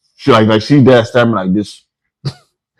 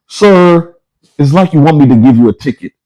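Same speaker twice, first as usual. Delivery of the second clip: raised-pitch, put-out officer voice; exasperated cop; 5 semitones higher, 4 dB louder than usual. Retold or imitated. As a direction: imitate a cop losing patience. Acting the fed-up cop.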